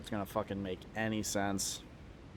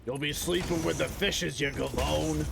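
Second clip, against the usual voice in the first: hammed-up mobster, pitched up; put-on wiseguy voice, raised; mock mobster threat; 4 semitones higher than usual. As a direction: play a mobster making a threat.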